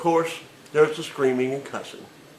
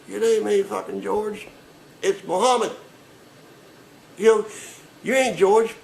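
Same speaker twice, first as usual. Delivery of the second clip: higher, louder scoffing retort; mock indignant caller; 7 semitones higher, 3 dB louder than usual. Caller sneering at the agent's fake name, raised voice. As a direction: call out the fake name, incredulous.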